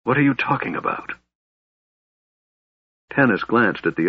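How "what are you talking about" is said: quick, higher-pitched testy question; irritable. A narrator's reading. Raistlin to the others questioning him, irritable. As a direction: snap it mildly, fast and high. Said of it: "Raistlin said irritably".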